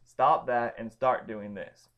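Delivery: slow, firm "Stop that"; emphatic command. Shown as a demonstration. Teacher voicing the apostle's command, slow and firm. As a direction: spell it out slowly like an order. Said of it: "emphatically proclaiming stop".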